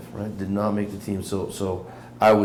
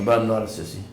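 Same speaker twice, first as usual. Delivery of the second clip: laughing; 7 dB louder than usual. Real, not acted. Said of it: "jokes about being called sissy".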